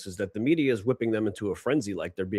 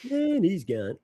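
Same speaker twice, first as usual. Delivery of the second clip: high, drawn-out "and he's gone"; mock play-by-play; 9 semitones higher, slower than usual. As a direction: call it out high as he walks off. Mock announcer singsong on host walking off.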